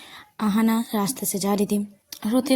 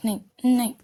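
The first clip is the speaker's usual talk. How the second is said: louder, insistent refusal; upset denial; 3 semitones higher, 5 dB louder, much faster than usual. Acted. Ahana grabbing her friend's collar, upset denial. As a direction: refuse to accept it, with a touch of desperation.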